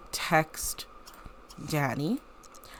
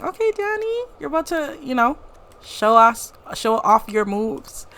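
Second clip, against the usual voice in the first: excited cheer; 7 semitones higher, 5 dB louder than usual. Real, not acted. Cheering a character on.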